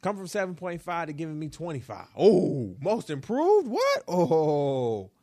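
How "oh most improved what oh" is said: mock surprise. Mock reaction to own suggestion.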